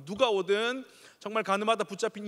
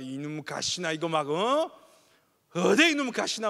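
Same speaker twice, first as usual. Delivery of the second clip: Gyeongsang dad yelling; 6 dB louder, slower than usual. Retold or imitated. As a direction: bark at the daughter like a Gyeongsang dad. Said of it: "경상도 엄마 아빠는 그렇지 않습니다".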